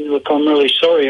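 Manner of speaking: ordinary talk, nothing marked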